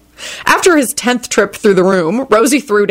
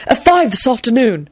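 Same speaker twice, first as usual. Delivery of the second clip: proud; 4 semitones higher than usual. A narrator's reading. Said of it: "he added proudly".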